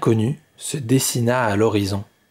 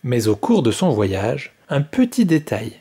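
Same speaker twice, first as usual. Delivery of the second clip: story narration. A narrator's reading. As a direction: read the tale to children, evenly. Narration between quotes.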